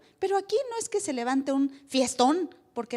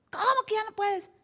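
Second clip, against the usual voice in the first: higher, whispered friend voice; tempting friend; 8 semitones higher than usual. Retold or imitated. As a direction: coax like a worldly buddy. (amigo tentador susurrando)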